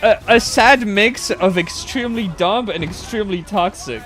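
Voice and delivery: frustrated loud verdict; exasperated shout. Real, not acted. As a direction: vent it loud.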